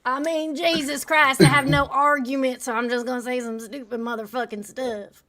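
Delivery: high-pitched mocking echo, laugh at the end; mocking imitation. Debater parroting an opponent who has no argument, mocking. Mocks the other debater's exclamation.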